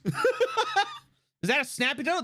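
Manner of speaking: slow question broken by laughter; laughing question. Real, not acted. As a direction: ask it through a laugh. Laughing while asking.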